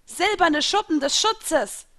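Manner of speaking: slow, high, loud spell cry; chanted-out battle call. A narrator's reading. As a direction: proclaim the spell, drawn out. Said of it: "riefen die Fische".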